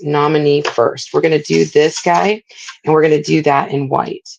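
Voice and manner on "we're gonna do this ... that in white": speaking on a held breath; words squeezed out while holding breath. Real, not acted. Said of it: "you can tell I'm holding my breath".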